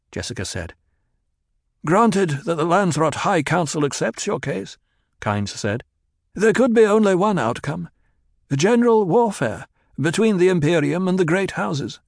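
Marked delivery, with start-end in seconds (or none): 1.8-12.0 lightly voiced, higher stern Kynes; stern planetologist. A narrator's reading. Kynes cautioning young Paul about war, stern and grave. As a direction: warn him gravely, as the older man.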